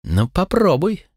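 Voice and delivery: high, slow, menacing challenge; hissed threat. A narrator's reading. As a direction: dare her, hissing. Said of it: "буквально прошипела Риана". (прошипела с угрозой)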